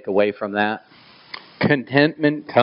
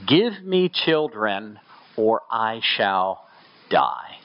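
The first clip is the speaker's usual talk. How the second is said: slow desperate plea; much slower than usual. Acted. Rachel's plea read slowly.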